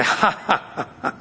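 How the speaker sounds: acted gloating chuckle; sneering laugh. Gloating over someone you dislike, sneering laugh. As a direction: laugh mockingly at someone's misfortune. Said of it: "Malice is when you laugh and sneer".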